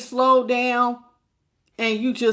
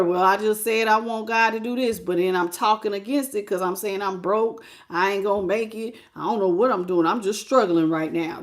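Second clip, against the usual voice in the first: mock defeated talk. Imitating someone talking against their own prayer. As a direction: sulk like someone giving up. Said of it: "you can't talk like that".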